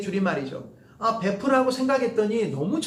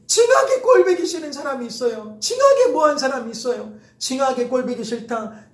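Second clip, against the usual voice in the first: Jeolla dialect complaint, raised and loud; 전라도 사투리로 투덜대듯; 5 semitones higher, 5 dB louder than usual. Retold or imitated. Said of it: "사투리를 써버려요".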